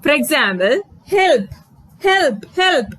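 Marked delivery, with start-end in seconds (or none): 1.1-2.9 high, urgent cry for help; shouting for help. Shown as a demonstration. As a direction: call out help like in danger. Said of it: "என்று நாங்க கத்தைக்குள்ள".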